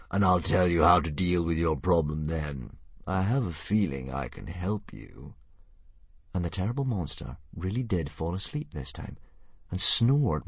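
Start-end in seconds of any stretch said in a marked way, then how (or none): 0.1-5.3 dragon voice. Acted. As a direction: lull it toward sleep.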